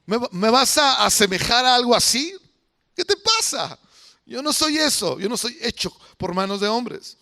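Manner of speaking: voicing God as he scolds idol worshippers, rising to an outraged peak; indignant God. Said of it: "y Dios dice".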